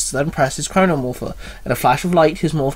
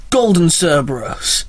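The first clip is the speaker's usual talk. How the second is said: yell; slower than usual. Acted. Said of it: "Adam yells".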